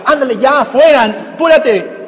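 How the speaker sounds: a curt get-out-of-here push; harsh dismissal. Retold or imitated. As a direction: snap at her to hurry off. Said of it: "no es fuerte".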